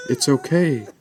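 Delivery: put-on soothing a scared child. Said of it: "while I tried to calm".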